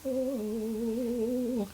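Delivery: high mock Italian chef, singing it; hammy Italian chef crooning; Italian chef accent. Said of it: "Italian chef?".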